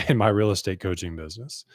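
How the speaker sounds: real, brief laugh at your own early struggle. Real, not acted. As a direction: chuckle into the words. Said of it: "I'm laughing now".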